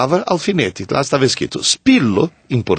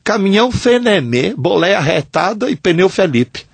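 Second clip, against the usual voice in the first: lightly imitated Northeastern Brazilian accent, pitched up; sotaque nordestino; 6 semitones higher than usual. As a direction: quote the Northeastern truckers' saying in a higher, lilting Northeastern accent. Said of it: "o pessoal do Nordeste falava". (leve imitação de sotaque nordestino, em tom mais agudo)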